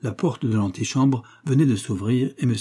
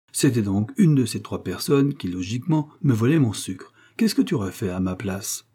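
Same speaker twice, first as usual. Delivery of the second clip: lightly voiced sleuth laying out suspects; pompous amateur detective; 2 semitones higher than usual. Coquille narrows down the suspects for Larve, mildly pompous. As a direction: set out the case with mild self-importance.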